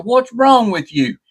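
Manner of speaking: high, slow exasperated question; retold startled scolding. Owner batting the crow away, retold scolding. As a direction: stretch it out high, scolding the bird. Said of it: "And I said".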